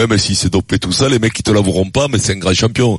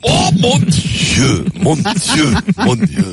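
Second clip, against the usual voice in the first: long drawn-out cry, then climbing higher; theatrical "oh my God"; mock dismay; 6 semitones higher, much slower than usual. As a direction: wail it in hammed-up horror. Reacting to jibe about his accent.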